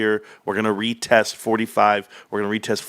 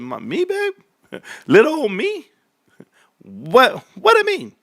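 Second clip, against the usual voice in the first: put-on much higher, squeaky little-old-me voice; mock coy; 11 semitones higher than usual. Husband acting flattered when wife shows him off, squeaky mock coy. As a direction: play it bashful and flattered.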